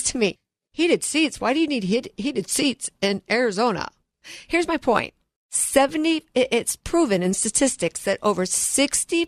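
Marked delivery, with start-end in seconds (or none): 0.7-3.9 higher-pitched mock disbelief, easing down; incredulous questioning. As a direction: imitate a salesman baffled by the request. Mimics salesman questioning her choice.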